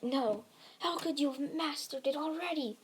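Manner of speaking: acted incredulous outcry, held back; shocked villain. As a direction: protest in stunned disbelief. Villain shocked by hero's power.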